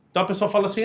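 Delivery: usual speaking voice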